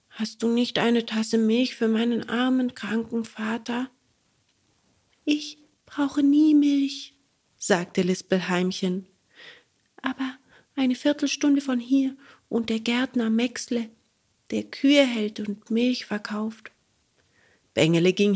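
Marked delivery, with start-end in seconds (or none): 0.1-3.9 put-on a bit higher, young and polite; small boy asking meekly; lightly raised puppet boy voice. Bengele asks the cricket. 5.2-7.1 high, slow tiny-creature voice; little cricket voice. Acted. Cricket answers. 10.0-16.7 little cricket voice. Acted. Cricket continues.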